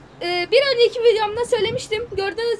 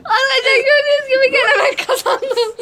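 laughing shout; 4 semitones higher, 4 dB louder than usual. Real, not acted. Wins the game, laughing loudly.

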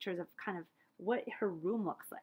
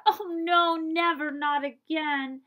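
dismayed thought; 6 semitones higher, 7 dB louder, much slower than usual. Acted. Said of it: "all to the horror".

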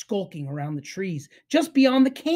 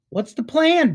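barking dog; 8 semitones higher, 5 dB louder than usual. A narrator's reading. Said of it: "barked Dexter".

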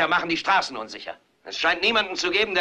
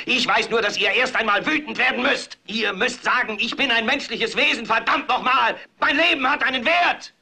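rising anger; 5 semitones higher than usual. Acted. Anchor rousing TV viewers to anger.

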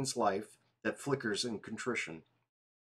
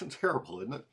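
laughing at himself; 3 semitones higher, 4 dB quieter, faster than usual. Real, not acted.

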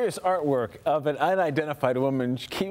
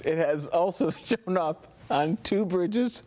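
laughing; 4 semitones higher than usual. Real, not acted. Anchor laughing through story.

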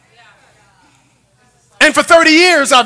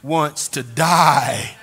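hushed sermon; 7 semitones lower, 6 dB quieter than usual. Real, not acted. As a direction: drop the voice to draw them in. Preacher drops to intense quiet.

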